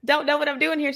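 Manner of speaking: high self-mocking voice; mock shy introduction; awkward younger self. Herself voiced awkward at party.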